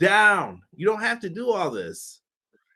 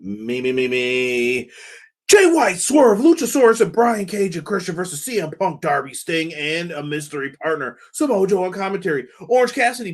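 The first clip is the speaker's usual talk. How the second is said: hyped wrestling announcer read, not far from his own voice; Excalibur voice; 3 dB louder than usual. Pretend. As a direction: rattle off the card like the Excalibur voice. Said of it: "let me see if I can do this in my Excalibur voice".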